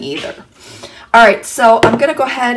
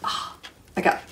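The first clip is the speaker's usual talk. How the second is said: eyes watering from onions; strained by stinging onion fumes; teary from chopping onions; 2 semitones lower than usual. Real, not acted. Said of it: "got tears forming in my eyes".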